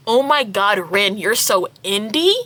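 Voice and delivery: "indie" lifted into a rising question; amused repeat. Retold or imitated. Narrator repeating the friends' line, rising amused question. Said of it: "Made me laugh out loud".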